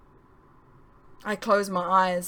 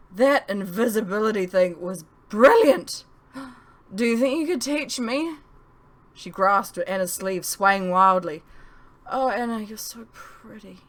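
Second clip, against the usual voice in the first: woozy gush; 2 semitones higher, 4 dB louder than usual. Acted. Woozy Lolitha before fainting.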